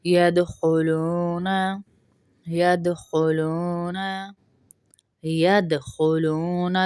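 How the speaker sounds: یدخلون with a light echo on the د; slow یدخلون, د slightly bounced; bounced dal. Shown as a demonstration. Teacher drills qalqala on the د of یدخلون. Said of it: "ید ہلائیں گے،".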